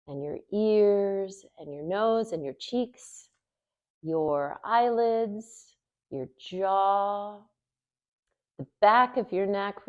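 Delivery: measured, lightly held meditation voice; guided relaxation. Acted. Teacher leading students through a body scan with eyes closed, guided relaxation.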